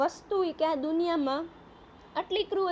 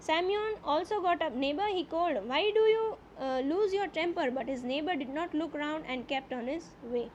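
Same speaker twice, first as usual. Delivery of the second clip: slow, deliberate reading aloud of the English text; slow story reading; slower than usual. A narrator's reading. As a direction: read each phrase slowly, as a teacher before translating. (ધીમે ધીમે વાર્તાનું વાંચન)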